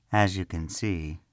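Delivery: slow, easy and kind; calm him down gently; a friendly, unhurried reassurance; pleasant reassurance. Acted. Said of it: "Karel reassured pleasantly".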